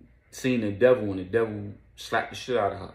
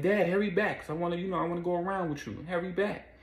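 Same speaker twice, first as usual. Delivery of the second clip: put-on higher kid voice for the son; little son; 9 semitones higher, faster than usual. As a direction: pitch up to play the young boy. Son begging dad.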